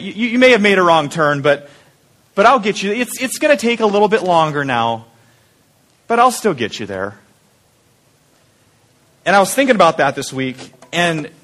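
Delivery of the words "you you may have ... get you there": reassuring voice. Retold or imitated. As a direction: gently reassure after a wrong turn. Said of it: "it's that reassuring voice".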